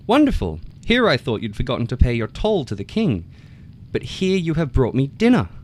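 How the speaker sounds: very high, loud, gloating frog; gleeful frog calling. A narrator's reading. Frog calls out to the fox, gleeful, high and loud. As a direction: crow with delight across the river. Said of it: "called out to the fox".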